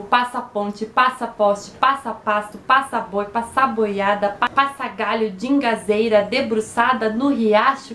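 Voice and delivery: rhythmic, chugging recital like a train; driving, even-metred verse reading; poem recitation. Acted. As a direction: recite it in steady repeated beats, evoking a train.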